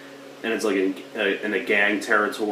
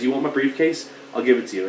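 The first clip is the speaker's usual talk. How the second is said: rising mock question, a bit higher; retold taunting offer; 4 semitones higher, faster than usual. Hero taunting the gang over his briefcase, mild mock threat. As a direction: tease them with the offer. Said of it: "And he says".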